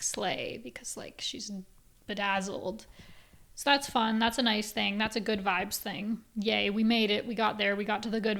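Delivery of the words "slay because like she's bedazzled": whisper. Real, not acted. Whispered aside explaining joke.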